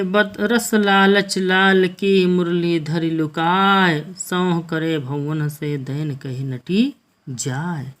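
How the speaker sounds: slow, measured verse recital; poem recitation. Acted. Teacher reciting a Hindi verse to students, slow poem recitation. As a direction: draw each line out like a poet on stage.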